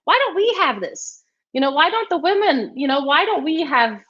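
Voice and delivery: retold indignant question. Retells her indignant question.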